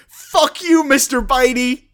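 high, loud mock yell while falling; shouted curse. Friend retelling a film scene, yells the falling hero's curse. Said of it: "as he falls he shouts".

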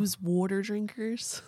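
Pennsylvania "youse wooder drinkers"; Pennsylvania accent. Shown as a demonstration. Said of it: "What is the Pennsylvania accent?".

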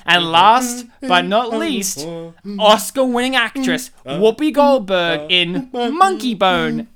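tribute announcer. Acted. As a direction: announce names like a tribute reel. In memoriam style tribute reading.

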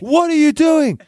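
high, hammed-up maternal shriek; mum's scream. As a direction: screech it as a scandalised mum. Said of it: "my mum screams".

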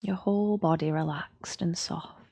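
soft breathy whisper. Acted. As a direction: whisper it to let them sink. Guided relaxation, closing the scan.

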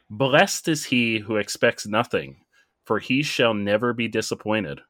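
quote read out. Shown as a demonstration. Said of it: "And that quote goes".

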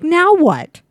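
high, loud, startled Now what; retold panic. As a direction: yelp it out like you're stuck holding a snake. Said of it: "and I'm like".

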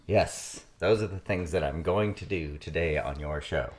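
distant, off-mic voice; far from mic. Real, not acted. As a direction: speak from far away from the mic. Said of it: "you sound far away".

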